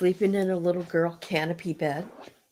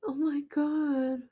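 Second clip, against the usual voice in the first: laughing disbelief; 5 semitones higher, 7 dB quieter, slower than usual. Real, not acted. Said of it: "I got tears rolling down my face".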